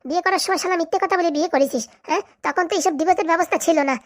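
wife tearing into her husband; mildly heated, indignant tirade; angry scolding. Acted. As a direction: scold with jabbing little "huh?" tags. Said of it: "তুমি রেগে যাচ্ছ কেন".

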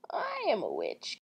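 soft, half-hearted witch. Shown as a demonstration. Reader searching for the lost voice, soft witch voice. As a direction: try on a witch voice, softly. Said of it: "Someone give me a witch voice".

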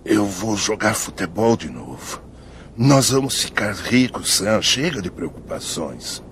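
slow, drowsy sleep-talk; nodding off. Real, not acted. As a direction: mumble half asleep. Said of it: "está falando dormindo de novo".

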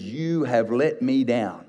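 slow, deliberate reproach; mild, understated accusation; accusing son. Retold or imitated. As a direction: wag a finger at the father. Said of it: "shaking his finger at his father and says".

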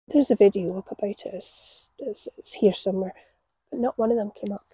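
usual speaking voice

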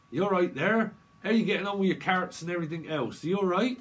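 high, loud friendly greeting; chirpy loud hello to a gardener; cheery neighbour voice. Retold or imitated. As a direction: call out brightly to a neighbour over the allotment. Voicing a person down south.

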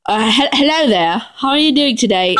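put-on English accent, polite greeting; hesitant attempt at an English accent. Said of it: "with the English voice".

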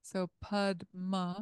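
slow Pud Ma, each syllable apart; 1 syllables spelled out. Shown as a demonstration. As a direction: sound out Pud Ma slowly. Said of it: "You see it's the same".

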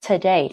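"today" with a weak first syllable; "today" said tuh-DAY; stress on DAY. Shown as a demonstration. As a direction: reduce "to", land on "day" in "today". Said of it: "trọng âm ở day".

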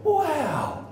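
high, laughing gasp of wow; beside yourself. Pretend. Guest meeting a cycling champion, laughing awed wow. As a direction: squeal it out in delighted awe. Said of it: "And you're beside yourself".

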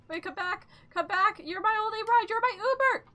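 desperate loud calling; shouting. Real, not acted. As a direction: yell for the ride to come back. Yelling after the fleeing ride.

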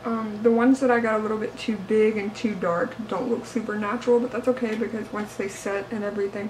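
slight lisp, mouth trays in; talking around whitening trays. Real, not acted. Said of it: "I feel like I'm talking with a lisp".

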